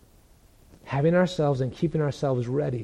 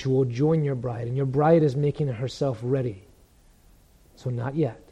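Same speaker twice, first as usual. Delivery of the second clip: Father's patient reply; 2 semitones lower than usual. Acted. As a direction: gently hold back an eager son. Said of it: "But the Father says".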